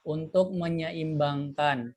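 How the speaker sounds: choppy connection, words dropping out; breaking up. Real, not acted. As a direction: voice cutting in and out over a bad line. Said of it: "Putus-putus, Ustadz".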